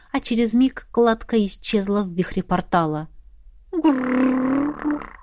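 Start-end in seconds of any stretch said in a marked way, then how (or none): 3.7-5.1 long mournful dragon growl. Acted. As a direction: growl with sadness. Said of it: "Тоскливый рык Айны". (тоскливый рык)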